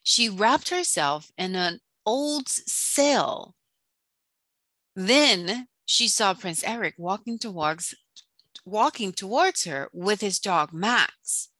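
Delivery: dramatic storyteller with punched key words; children's story reading. A narrator's reading. Teacher reading The Little Mermaid to children, dramatic storytelling. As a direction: read it aloud to children, theatrically.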